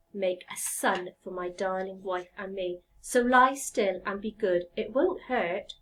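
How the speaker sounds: lightly voiced woodcarver, low and soothing; calm the block of wood. Woodcarver promising the log it won't hurt, gently. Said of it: "he said".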